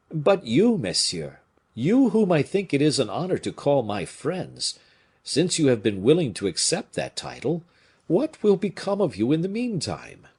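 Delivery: high, urgent, emotional appeal; very agitated. A narrator's reading. Officer taking leave of his father's old adversaries, agitated. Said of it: "very much agitated at taking leave".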